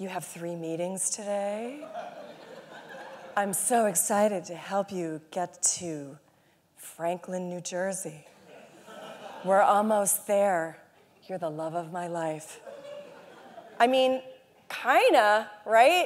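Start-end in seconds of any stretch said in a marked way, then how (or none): 0.0-12.6 low, seductive, sexy fembot voice. Imagining an AI assistant talking to its user, in a sexy fembot voice. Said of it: "with a sexy voice who's like telling you".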